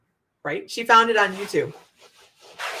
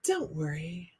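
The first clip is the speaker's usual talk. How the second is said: deadpan; 3 semitones lower, 11 dB quieter, slower than usual. Retold or imitated. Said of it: "she said it so deadpan".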